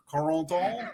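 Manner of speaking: "Corentin" tried through the nose, r still American; hesitant nasal attempt at "Corentin", rising at the end; nasal imitation. Shown as a demonstration. Host copies co-host's saying, tentative nasal pronunciation. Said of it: "It sounds like you're nasally".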